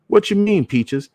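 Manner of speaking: lightly voiced uncle caught off guard; puzzled uncle. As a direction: uncle to his niece, startled and puzzled.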